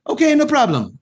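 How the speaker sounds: high-pitched, obliging counter guy; little Italian guy. Retold or imitated. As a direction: jump up high as the imitated pizza man. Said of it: "the little Italian guy's like".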